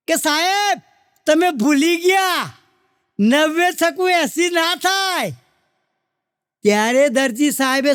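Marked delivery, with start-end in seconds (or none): 0.2-5.3 slowish mock shout from the class, "નવે છકું એંસી ના થાય" stressed on "છકું" with a falling end; chorus of kids calling out the mistake; children correcting. Students shouting to the headmaster that the sum is wrong. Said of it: "બધા છોકરાએ તરત બૂમ પાડી".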